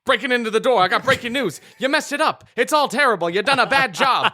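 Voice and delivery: booming announcer, high and bright. Acted. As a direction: play it like a radio announcer. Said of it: "This is my announcer voice".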